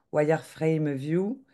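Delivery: slow, careful English accent, half joking. Shown as a demonstration. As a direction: say it in a self-mocking English accent. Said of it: "avec mon super accent anglais".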